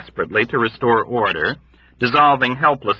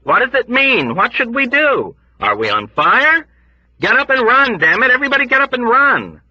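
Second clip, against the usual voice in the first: high, loud frantic cries; frantic yells to run; panicked shouting; 5 dB louder than usual. Acted. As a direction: shout them all out of bed.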